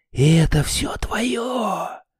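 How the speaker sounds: hushed, high half-whisper, твое stretched out. Reading a story aloud, the narrator voices Sniff speaking to Snufkin: half-whispered. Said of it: "прошептал Сниф".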